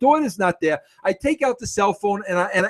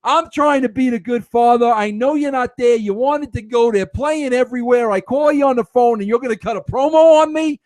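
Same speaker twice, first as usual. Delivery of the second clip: mock indignant; 4 semitones higher than usual. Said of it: "I cut the promo right back".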